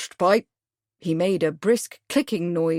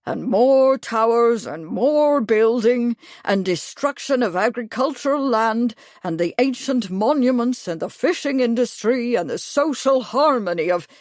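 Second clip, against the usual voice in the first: warming to subject; 5 semitones higher, 4 dB louder than usual. Acted. Major ranting at Bradford, louder building tirade. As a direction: build the rant list by list. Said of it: "He was warming to his subject".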